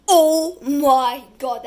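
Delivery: loud, drawn-out delight; delighted gasp. Real, not acted. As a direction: gush over it slowly. Delighted by the decoration.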